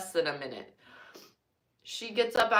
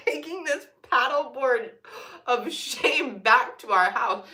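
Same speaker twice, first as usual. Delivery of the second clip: mock despair; 6 semitones higher, 4 dB louder, slower than usual. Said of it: "but mine was instantly".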